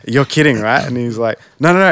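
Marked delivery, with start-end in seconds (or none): 0.1-0.8 high, loud disbelieving question; can't believe what you're hearing; surprised disbelief. Retold or imitated. Disbelief at Blink manager. 1.6-1.9 high, loud eager no; excited insisting. Retold or imitated. Manager insisting, voiced loudly.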